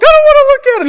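very high, loud squeal of refusal; imitating whiny daughter. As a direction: squeal like a scared little girl. Daughter refusing to see cockroach.

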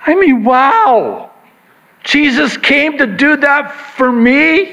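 slow, high, wondering; awe. Real, not acted. Pastor marvelling to congregation, slow awed voice. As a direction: let the wonder stretch out.

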